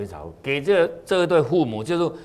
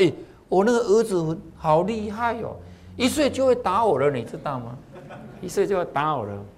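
proud boasting father; 6 semitones higher than usual. Acted. Proud father boasts about son.

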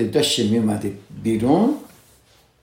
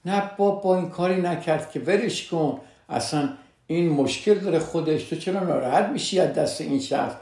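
higher-pitched, waving it away; dismissive protest; 6 semitones higher than usual. Retold or imitated. Husband playing down his wife's complaint, dismissive. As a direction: imitate a husband brushing it off.

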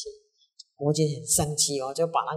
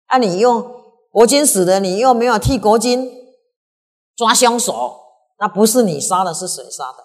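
loud, high, indignant; outraged protest; 5 semitones higher, 12 dB louder than usual. Acted. Minister protesting to the historian, outraged loud protest. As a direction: protest the record furiously.

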